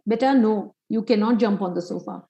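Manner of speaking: gently firm parent setting a rule; calm yet firm. Acted. Father telling his child the sofa rule, calm yet firm. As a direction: say no calmly, without backing down. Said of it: "saying that calmly and yet firmly".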